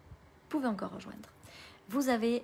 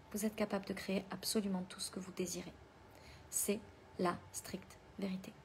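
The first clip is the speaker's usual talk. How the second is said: whispering; 6 dB quieter than usual. Acted. Whispered affirmation to the audience.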